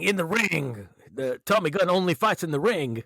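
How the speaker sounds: high-pitched mocking taunt; mocking Tommy Gunn. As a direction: mimic a cocky young boxer, way up high. Quoting Tommy Gunn line.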